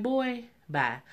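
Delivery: high, sassy brush-off; dismissive boy bye.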